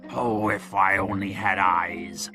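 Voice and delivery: slow, drawn-out low moan; lament. A narrator's reading. Blind Pew wishes he could search himself, lamenting. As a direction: wail it slowly in frustration.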